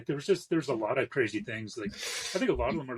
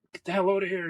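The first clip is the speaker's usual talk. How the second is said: retold angry boss; 7 semitones higher, 4 dB louder than usual. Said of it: "Paul would just be like".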